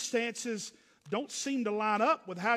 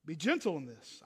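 much softer, gently lowered; soft and gentle; 7 semitones lower, 6 dB quieter than usual. Shown as a demonstration. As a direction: ease it down as if calming someone. Preacher voicing Paul's urging.

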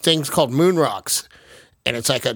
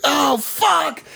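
much higher, strained dismay; dread; 11 semitones higher than usual. Retold or imitated. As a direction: sound like you suddenly realize you are too high. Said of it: "I was like".

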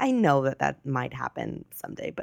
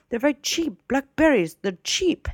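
high-pitched Italian-accented imitation; imitated Italian accent; 10 semitones higher, 4 dB louder than usual. Older man pitching cheap blackberries to shopper, imitated Italian accent. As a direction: push the bargain in a mock Italian accent. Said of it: "his thick Italian accent".

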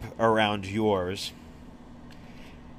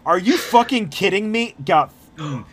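higher, louder disbelief; furious outburst; 7 semitones higher, 9 dB louder than usual. Real, not acted. Game master rages at his own bad dice roll, loud and high. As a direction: blow up at a terrible roll. GM rolls a natural one.

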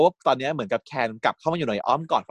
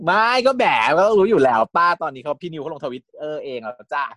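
slow, louder, higher sass; sassy retort; 4 semitones higher, 4 dB louder than usual. Real, not acted. To her friend about spoilers, slow sassy banter. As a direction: tease her, drawn out.

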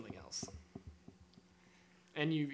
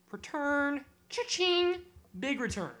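giddy cheer; 10 semitones higher, much slower than usual. Real, not acted. Gloating over a sock sale.

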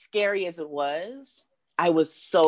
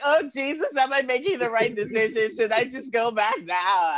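panicked self-doubt; 7 semitones higher than usual. Retold or imitated. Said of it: "And I'm like".

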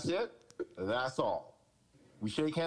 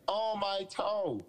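slow, higher mock whimper over a sore toe; hammed-up whine of a pampered quarterback; mock whining; 6 semitones higher, much slower than usual. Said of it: "this boo-hoo covid turf toe".

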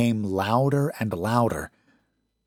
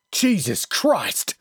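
yelled; 8 semitones higher, slower than usual. A narrator's reading. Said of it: "Wheatley yelled".

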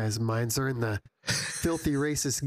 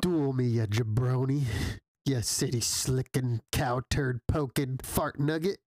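cowboy taunt. Pretend. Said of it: "what's my favorite cowboy catchphrase".

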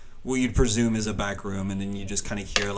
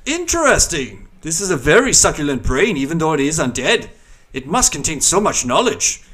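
higher alien monster voice; mind flayer voice; 6 semitones higher, 8 dB louder than usual. Acted. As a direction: savour every word like a creature.

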